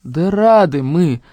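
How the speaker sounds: slow, drawn-out assurance; reassuring. A narrator's reading. Brother assures upset sister, placating. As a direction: stretch it out to placate her. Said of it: "заверил Сеня".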